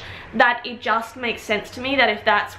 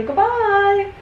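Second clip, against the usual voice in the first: shooing the cat; 9 semitones higher, 3 dB louder than usual. Real, not acted.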